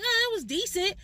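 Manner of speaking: unimpressed. Pretend. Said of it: "decent in regular English is not really, like, a compliment".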